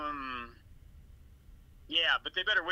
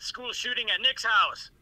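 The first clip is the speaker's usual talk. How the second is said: excited; 7 semitones higher, 6 dB louder than usual. Retold or imitated. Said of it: "with exclamation point".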